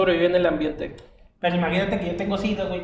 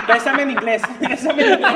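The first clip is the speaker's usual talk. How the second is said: higher and louder, through laughter; mock the line while cracking up; laughing mockery; 7 semitones higher, 5 dB louder than usual. Se burla de la cita. (burla entre carcajadas, más aguda y fuerte)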